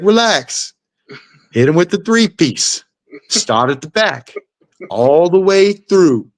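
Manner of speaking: imitating a dad coaching, pitched high; high, drawn-out corner instructions. Dad coaching his son between rounds, high mock instructions. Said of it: "his dad's like".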